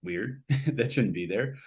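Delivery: slow, drawn-out huh of mild puzzlement; a lightly voiced double take; a touch of bemused disbelief; puzzled inner thought. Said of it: "where I'm like".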